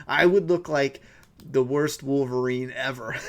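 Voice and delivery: laughing at himself; chuckling through the words. Real, not acted.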